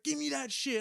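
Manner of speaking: high-pitched imitated demand; retold angry demand. Homeless man coming back for the food, mock demanding. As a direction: act out a pushy demand.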